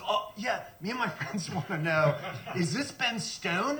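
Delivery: mock kid prank caller; teen prank caller. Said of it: "He goes".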